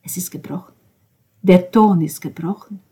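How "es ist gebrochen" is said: whisper. Acted.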